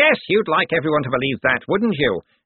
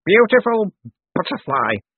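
slurred, loud, high first word sinking away; 10 semitones higher, 5 dB louder than usual. A narrator's reading. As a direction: slur it as if delirious. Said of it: "Cosmo slurred".

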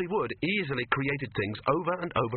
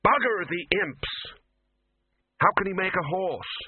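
loud, high, angry bluster; Dean angry; 7 semitones higher, 3 dB louder than usual. A narrator's reading. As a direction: bark it in frustration. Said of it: "That was the Dean".

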